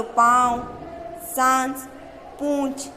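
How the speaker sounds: पाँव, सांस, पूंछ voiced through both mouth and nose; nasalized demo. Shown as a demonstration. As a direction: show the chandrabindu sound clearly. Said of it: "जैसे कि बोलो". (मुँह और नाक दोनों से अनुनासिक उच्चारण)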